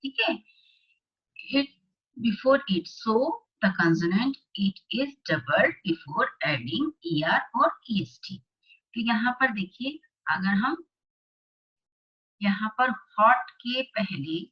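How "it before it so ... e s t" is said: slow, deliberate classroom dictation; slow worksheet read-aloud. Acted. Teacher reading the worksheet aloud to class eight students, slow and deliberate. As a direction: read each phrase out slowly for the class.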